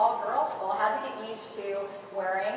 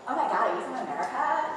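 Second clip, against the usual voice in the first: badly faked Australian schoolgirl; lightly imitated Australian girl's question; attempted Australian accent. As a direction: have a half-hearted go at an Australian accent. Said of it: "I can't do an Australian accent".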